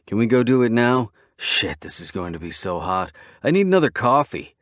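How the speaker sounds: can barely contain his glee; excited biker grinning at the offer; eager. Acted. Bullseye thrilled to join in.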